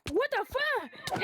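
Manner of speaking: normal talking voice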